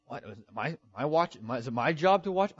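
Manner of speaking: stammering mock indignation; sassy. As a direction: play an affronted, sassy comeback. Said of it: "are you getting sassy with God?".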